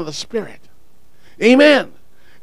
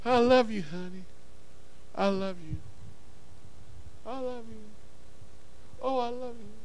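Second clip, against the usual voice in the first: mock husband; 13 dB quieter than usual. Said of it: "your husband walking by and said".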